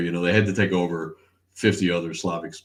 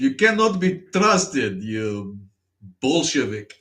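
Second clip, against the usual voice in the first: slow, high, hammed-up Russian accent; 5 semitones higher, 3 dB louder, much slower than usual. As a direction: denounce him as a comic Russian. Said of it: "he is a fucking Russian".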